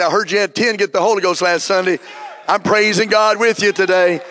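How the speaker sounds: praising God with a friend, shouting thrilled. Pretend. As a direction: call them up bursting with joy. Voices a thrilled call to a friend.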